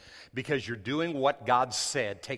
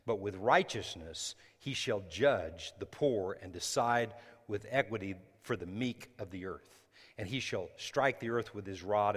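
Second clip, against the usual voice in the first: measured, solemn Bible reading; scripture reading. Acted. Pastor reads Isaiah to the congregation, solemn.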